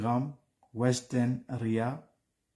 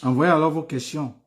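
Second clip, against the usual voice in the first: calling out; 5 semitones higher, 8 dB louder than usual. Real, not acted. Urging viewers to send questions.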